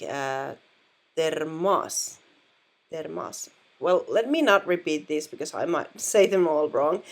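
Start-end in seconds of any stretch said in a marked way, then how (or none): 1.2-3.5 termos with the stress on the first syllable, TER; termos, second o reduced to ah; pronunciation demo. Shown as a demonstration. Teacher models the answer for students, careful. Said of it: "that is pronounced like".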